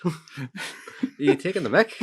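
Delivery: high, loud, incredulous comeback; mock indignation. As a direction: challenge them in comic outrage. Acted indignant customer at the till.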